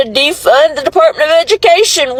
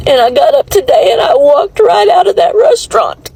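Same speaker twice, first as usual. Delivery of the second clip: tearful outburst; 2 semitones higher, faster than usual. Real, not acted. Outburst while crying.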